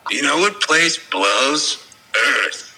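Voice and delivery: alien voice. Pretend. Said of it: "Just say".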